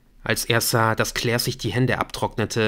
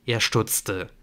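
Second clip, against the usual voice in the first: usual speaking voice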